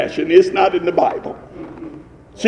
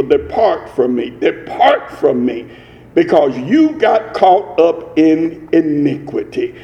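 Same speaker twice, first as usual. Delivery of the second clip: solemn God; 5 semitones lower than usual. Acted. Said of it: "And God says".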